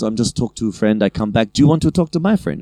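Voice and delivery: put-on broken English with a light Italian accent. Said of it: "She had real bad English".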